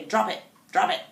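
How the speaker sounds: frustrated repeating. Shown as a demonstration. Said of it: "and get really frustrated".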